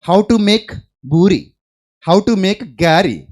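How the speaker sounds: slow, sing-song mock title; mock search title. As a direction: tease the cooking videos. Mocking YouTube search titles. (ఎగతాళిగా నెమ్మదిగా)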